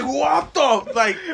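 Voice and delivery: laughing disbelief. Retold or imitated. Fans recall their reaction, crying with laughter. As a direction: crack up in disbelief. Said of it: "I was like".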